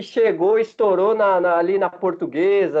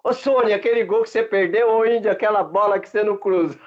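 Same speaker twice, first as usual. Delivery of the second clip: calling out to teammates, higher and joking; teasing locker-room banter; 3 semitones higher, faster than usual. Retold or imitated. Player teasing teammates in the locker room before a match, playful mock calling out. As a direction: rib your teammates about their misses. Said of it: "aquele sarro que a gente tira ali".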